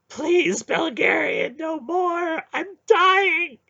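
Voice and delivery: high, loud, terrified begging; desperate pleading. Acted. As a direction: plead for your life. Hierarch begging under torture.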